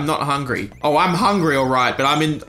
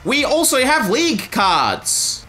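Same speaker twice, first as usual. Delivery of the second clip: vendor call; 7 semitones higher than usual. Acted. Voicing stall seller.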